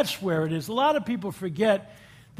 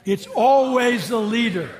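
It's always the leader, slower and louder, stressing "always"; slow emphatic repeat; 3 semitones higher, 7 dB louder, slower than usual. Shown as a demonstration. Speaker repeats the clerk's motto for the audience, slow and loud. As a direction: hammer home "always" so the crowd can echo it. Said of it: "Can you say that?".

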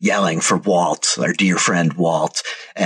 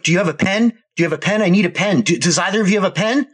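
high, frantic plea from a panicked stranger; frantic man begging; 12 semitones higher, faster than usual. Acted. Game master voicing a panicked survivor, high and frantic. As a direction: squeak it out like a desperate man.

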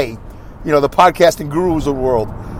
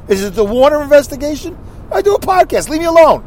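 ribbing voice, climbing higher; teasing coworker; 7 semitones higher than usual. Retold or imitated. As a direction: needle him about the podcast, rising up.

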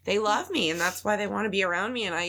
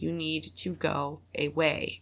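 slow firm; 5 semitones lower, slower than usual. Retold or imitated. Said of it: "there are times where I'm like".

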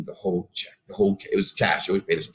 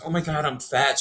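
lightly imitated girl, pitched higher; mock skinny girl; 5 semitones higher than usual. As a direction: mimic a girl fishing for reassurance. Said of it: "like a skinny girl says".

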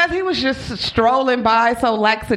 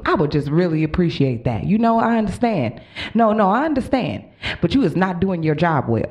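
restrained, lower-pitched respectful scolding; Black woman voice; 4 semitones lower than usual. Retold or imitated. Passenger respectfully telling off the bus driver, mad but controlled. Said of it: "go with my black woman voice".

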